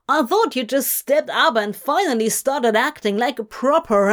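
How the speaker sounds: lightly voiced scolding superior, punched stresses; indignant archangel. Archangel rebuking Zira over the demon, indignant. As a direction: berate an underling in mild outrage.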